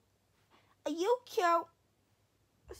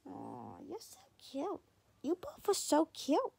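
cooing; slower than usual. Real, not acted. Cooing at the dog.

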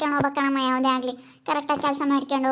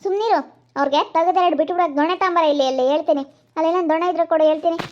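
cross, raised-voice warning; scolding threat; 2 semitones higher, 3 dB louder than usual. Acted. Madam demanding a stick for the children, scolding.

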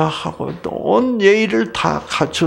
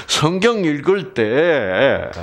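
normal talking voice

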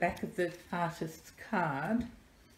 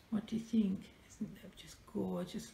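whisper; 6 dB quieter than usual. Real, not acted. Asking viewers about bird.

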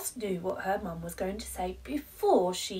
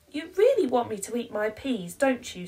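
put-on sly child; 5 semitones higher, 7 dB louder, faster than usual. Child sly question to mum.

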